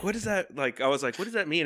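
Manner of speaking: high-pitched baffled question; mock bewilderment; retold puzzlement. Retold puzzlement at French signs.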